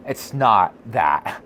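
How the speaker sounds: slow, drawn-out mock valley girl put-down. Husband mimicking his wife's condescending reply, slow valley girl drawl. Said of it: "Mindy's a valley girl".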